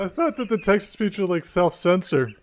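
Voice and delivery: breathy whisper through laughter. Real, not acted.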